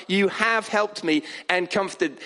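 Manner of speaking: "have" stressed to mark what is already done. Shown as a demonstration. Preacher showing the tense change, stress on "have". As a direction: lean firmly on "have".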